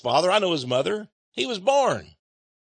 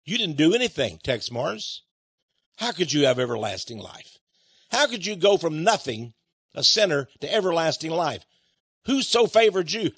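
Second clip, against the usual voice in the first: doubter's voice; 4 semitones lower than usual. Retold or imitated. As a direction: lightly voice the questioning critic. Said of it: "Some say".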